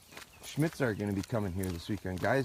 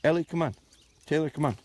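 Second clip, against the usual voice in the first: higher, louder calls to the dogs; raised command tone; 6 semitones higher, 7 dB louder, faster than usual. Real, not acted. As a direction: call the dogs in firmly. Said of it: "my tone goes up".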